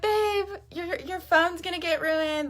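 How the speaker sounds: high-pitched mock wifely protest; retold fretting. Wife retelling her plea to rain-soaked husband, high and fretful. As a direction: re-enact a worried plea, pitched right up.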